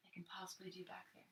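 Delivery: unvoiced, very soft whisper; softest whisper. Shown as a demonstration. Art teacher showing kids the faintest background strokes, whispering. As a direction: breathe it out as softly as you can. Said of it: "the softest whisper voice".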